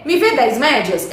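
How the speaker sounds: slow, casual bakery order; slowly acting a local bakery request. Shown as a demonstration. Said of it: "a gente chega na padaria e fala assim".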